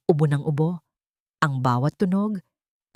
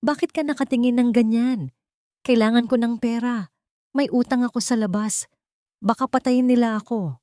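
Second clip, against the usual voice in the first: defensive angry sister; 6 semitones higher than usual. A narrator's reading. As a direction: snap back, cornered and scared. Drunk sister demands the money.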